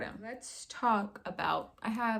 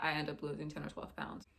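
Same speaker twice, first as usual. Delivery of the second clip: whispering; 6 semitones lower, 7 dB quieter than usual. Real, not acted. Baby asleep, whispered repeat.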